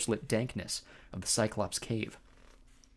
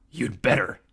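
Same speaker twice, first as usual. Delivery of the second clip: warning; 6 dB louder, slower than usual. A narrator's reading. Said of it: "he warned".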